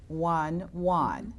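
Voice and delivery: each digit slow and separate. Shown as a demonstration. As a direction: finish the phone number at dictation speed. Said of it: "I'm gonna say it slower".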